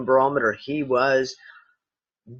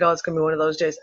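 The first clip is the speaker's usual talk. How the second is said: resigned shrug; much faster than usual. Retold or imitated. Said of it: "I was literally just like".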